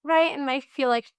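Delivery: talking around a sucker; words round a candy in the mouth; sucking a lollipop. Real, not acted. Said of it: "sorry, I have a sucker".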